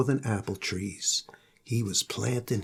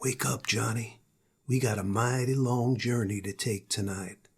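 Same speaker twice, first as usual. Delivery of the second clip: gentle angel call; 3 semitones lower, 5 dB quieter than usual. Acted. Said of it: "appeared and called to him".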